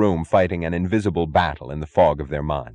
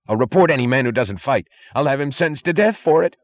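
shrill threats; 7 semitones higher, 4 dB louder than usual. A narrator's reading.

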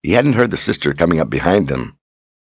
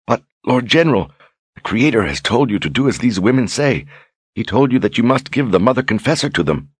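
puzzled simple woman; 2 semitones higher than usual. Acted. Lunetta worrying to Brogan about the Creator, puzzled. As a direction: question him timidly.

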